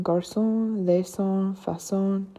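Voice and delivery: French "garçon, laissons, façon", each with an S sound; cedilla as S. Shown as a demonstration. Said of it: "is usually pronounced as an S".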